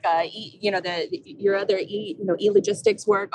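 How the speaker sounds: flustered, stumbling over words; losing the thread mid-question; stage fright. Real, not acted. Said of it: "I'm blanking on everything right now".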